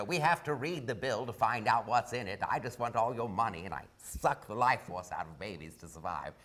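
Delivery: a light hint of Katharine Hepburn as Pelosi; Katharine Hepburn impression. Comedian doing his Pelosi bit as a lightly voiced Katharine Hepburn. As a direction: wobble through it like old Hollywood Hepburn. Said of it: "I always do a Katharine Hepburn".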